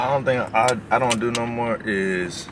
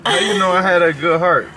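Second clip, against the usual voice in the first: surprised; 9 semitones higher, 7 dB louder than usual. Real, not acted. Surprised partner asks loudly.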